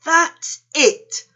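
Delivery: high, loud burst of discovery; excited exclamation. A narrator's reading. Panda hits on an idea, excited exclamation. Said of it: "Panda exclaimed".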